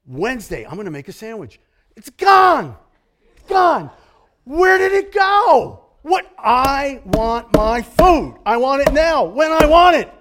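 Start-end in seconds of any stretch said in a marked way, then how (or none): 2.0-6.3 shouted, much higher and louder; mock outrage. Preacher shouting over vanished cheese in mock outrage. 6.4-10.1 mock tantrum. Preacher mocking our selfish grumbling, loud and high.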